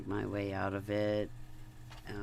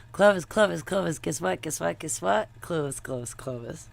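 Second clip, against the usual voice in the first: excited calling out; 6 semitones higher, 7 dB louder than usual. Real, not acted.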